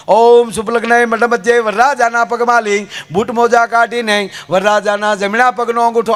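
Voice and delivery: lightly chanted priestly recitation; hint of a ceremonial drone; mock wedding priest. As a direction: intone it like a Sanskrit wedding mantra.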